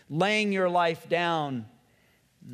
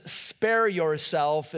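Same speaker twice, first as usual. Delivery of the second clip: tempting voice; much slower than usual. Acted. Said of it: "the voice that says".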